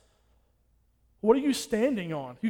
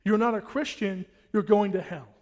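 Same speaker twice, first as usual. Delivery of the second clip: loud emphatic warning; 4 dB louder than usual. Real, not acted. Preacher's climactic warning.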